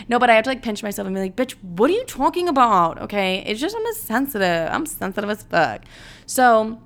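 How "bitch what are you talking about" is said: higher-pitched, incredulous telling-off; exaggerated talking-to; mock self-scolding. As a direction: call yourself out in mock disbelief. Scolding herself in retold self-talk.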